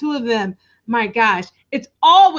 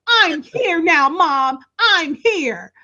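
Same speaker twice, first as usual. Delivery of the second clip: mock caring daughter; 5 semitones higher than usual. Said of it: "she does her".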